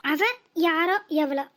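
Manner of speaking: slow, drawn-out mock of mother's words; mocking mimicry. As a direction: mimic mother's act, dragging it out. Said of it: "உன் நடிப்புக்கு Oscar அவார்டே கொடுக்கலாம்". (இழுத்து இழுத்து கிண்டலாகப் பாவனை)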